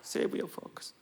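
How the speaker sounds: drawn-out English, fading to a whisper; imitating a host. Restaurant host telling diners to keep their forks. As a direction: play the friendly restaurant host. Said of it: "주인이 그러잖아요".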